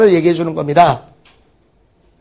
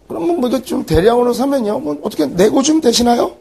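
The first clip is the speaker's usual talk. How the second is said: a lightly higher, polite haggling customer; haggling with the shop owner, a touch higher and polite; polite customer asking; 4 semitones higher than usual. Retold or imitated. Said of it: "이렇게 얘기하거든요".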